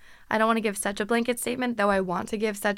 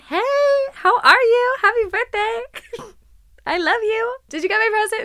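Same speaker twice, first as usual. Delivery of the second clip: much higher, louder, forced cheer; bubbly upbeat; 12 semitones higher, 8 dB louder than usual. Retold or imitated. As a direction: fake bubbly for dad on his birthday. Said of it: "as bubbly and upbeat as possible".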